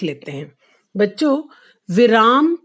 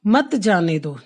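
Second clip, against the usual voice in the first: मत जाने दो as its own phrase, lower and falling; मत joined to जाने दो; 4 semitones lower than usual. Shown as a demonstration. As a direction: start afresh on मत, fall through जाने दो. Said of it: "एक बार फिर से देख लो". ("मत जाने दो" एक साथ, गिरते सुर में)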